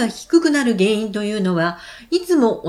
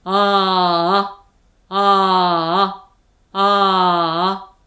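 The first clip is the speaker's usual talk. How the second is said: a lower, slow, sustained ah; 4 semitones lower, much slower than usual. Shown as a demonstration. Teacher demonstrates the low-voice exercise, low and slow. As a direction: drop the pitch and hold each ah long. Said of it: "まずは低い声で".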